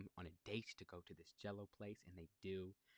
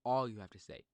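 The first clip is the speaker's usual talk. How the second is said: all you have to say, called out much louder; louder repeat; 10 dB louder than usual. Shown as a demonstration. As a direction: push the repeat up for emphasis. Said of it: "So guys, if you want".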